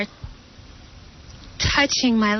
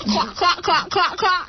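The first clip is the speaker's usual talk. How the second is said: duck quacks pitched up; high quacking; 6 semitones higher than usual. Acted. Actress insisting she is quacking, high quacks. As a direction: quack it high, on each beat. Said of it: "I'm doing it".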